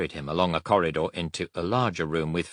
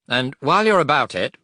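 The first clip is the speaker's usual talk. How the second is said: higher and louder, eager; eager aside; 9 semitones higher, 8 dB louder than usual. Acted. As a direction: toss it in brightly. Bader adds a request.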